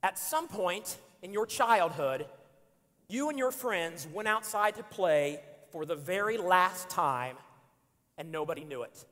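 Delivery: slow, deliberate second reading; slow solemn reading. Shown as a demonstration. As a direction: let each word land. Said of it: "I'm gonna read it again".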